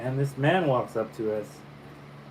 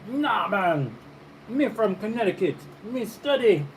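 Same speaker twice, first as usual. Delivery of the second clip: high-pitched put-on Jamaican patois; mock patois; 8 semitones higher than usual. White guy from Connecticut answers the friends, imitated patois. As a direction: imitate an outsider's eager patois. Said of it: "coming at us with a patois".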